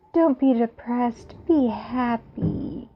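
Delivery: high, slow, cutesy cat voice; voicing the cat. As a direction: speak for the kitty sweetly. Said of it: "Kitty says".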